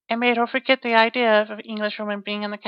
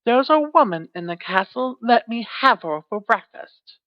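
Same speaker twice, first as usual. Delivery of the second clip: cried out; 3 dB louder than usual. Acted. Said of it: "cried the giantess".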